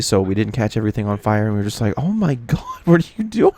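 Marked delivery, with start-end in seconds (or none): 2.0-3.5 high, laughing mock outcry; laughing disbelief. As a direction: laugh through the shocked question. Family reacts to the steak fire.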